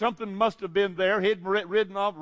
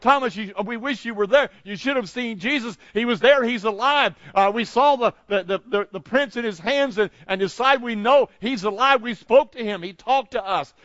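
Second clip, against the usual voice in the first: higher, louder, breathless-to-share good news; excited disciples; 4 semitones higher, 6 dB louder than usual. Acted. Disciples telling Thomas he missed Jesus, excited. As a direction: urgently tell a friend what they saw. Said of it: "tell him with excitement".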